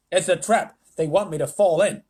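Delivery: fly voice. Acted. Fly speaks.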